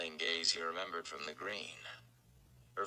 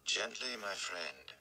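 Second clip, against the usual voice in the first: gentle; 4 dB quieter, slower than usual. Acted. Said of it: "Moraine said".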